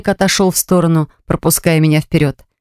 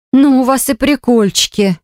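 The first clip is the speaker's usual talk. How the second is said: breathless exclamation; 6 semitones higher than usual. Acted. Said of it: "выдохнула я".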